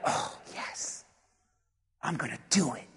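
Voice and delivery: very soft, low murmur; privately psyching yourself up, under the breath; hushed resolve. Acted. Voices a listener quietly resolving.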